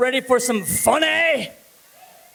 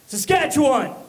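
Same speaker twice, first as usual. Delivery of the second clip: shouted to get the crowd going; crowd cheer shout; 4 semitones higher, 3 dB louder than usual. Real, not acted. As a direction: call it out loud to the room. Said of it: "yell out".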